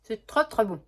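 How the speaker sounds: talking with a mouth full of smoothie. Real, not acted. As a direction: speak through a mouthful. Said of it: "Je parle la bouche pleine".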